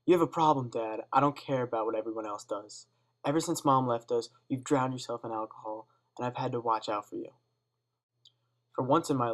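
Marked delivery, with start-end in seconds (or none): 0.0-7.3 put-on loud, exploding at a drunk father; angry outburst. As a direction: let the anger burst out. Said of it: "An energy was exploding ... out my mouth".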